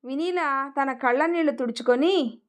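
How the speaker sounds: ordinary delivery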